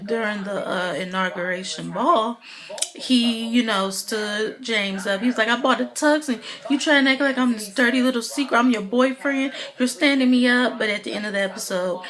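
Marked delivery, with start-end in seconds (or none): 5.5-10.8 higher, mock-aggrieved boyfriend complaint; mild retold indignation. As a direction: imitate a stood-up boyfriend's protest. Acted quote of stood-up boyfriend.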